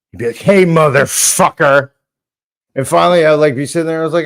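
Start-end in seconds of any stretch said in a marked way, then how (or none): 0.4-1.9 angry retort. Retold or imitated.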